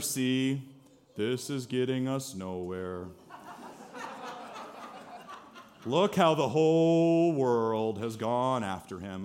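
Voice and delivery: low, slow, gloomy, glum donkey voice. Reading out what the Pharisees said to one another, do it in an Eeyore voice. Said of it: "you kind of have to read this in an Eeyore voice".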